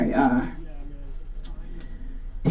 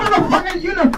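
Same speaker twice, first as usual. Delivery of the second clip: mock Jennifer Lewis; 13 semitones higher than usual.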